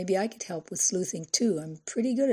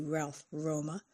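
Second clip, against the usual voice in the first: acid; 3 semitones lower, 9 dB quieter, slower than usual. Acted. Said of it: "Her tongue dripped acid as she repeated".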